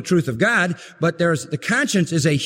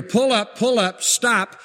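higher, measured voice-box alarm; imitated warning voice; 5 semitones higher, slower than usual. Clear conscience warns the believer, imitated alarm voice. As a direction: echo the cockpit warning as conscience. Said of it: "you're gonna hear".

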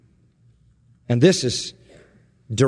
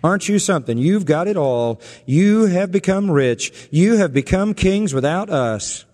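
biting mock compliment; sarcastic; 2 semitones higher than usual. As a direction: needle them with false admiration. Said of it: "It's all sarcasm".

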